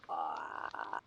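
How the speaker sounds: low, soft drawn-out "ahh"; soft, dopey open-mouthed noise. Acted. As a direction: let out a quiet frog-like "ahh". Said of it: "And just go".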